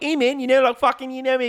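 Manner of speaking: high, loud, goofy mock Thor. Mocking the hero joking through her cancer news, high goofy bro voice. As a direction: ham up a jokey bro hero. Mocking Thor's jokey talk.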